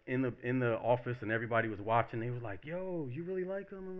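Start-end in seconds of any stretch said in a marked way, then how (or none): 2.6-4.0 incredulous onlooker. Acted. Office onlookers questioning the woman about him, incredulous. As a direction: react as an astonished bystander.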